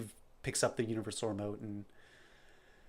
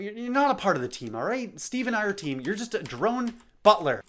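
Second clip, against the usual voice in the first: high, loud dismissive outburst; cruel snap; 10 semitones higher, 7 dB louder than usual. Acted. Frustrated Percy tells Ash she is just a butler, angry outburst. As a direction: put her down hard.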